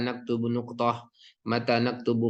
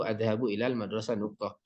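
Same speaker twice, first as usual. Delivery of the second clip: "adhabu ilal madrasah nuqtah" softer and even, falling to the full stop; flat statement intonation; 3 semitones lower, 5 dB quieter than usual. Shown as a demonstration. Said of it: "intonasinya juga seperti itu". ("adhabu ilal madrasah nuqtah" dengan intonasi datar)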